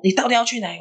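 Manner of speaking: high, urgent demanding question; acted-out pressing interrogation; retold exasperated father. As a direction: play a dad at his wits' end. Father demands again where child goes.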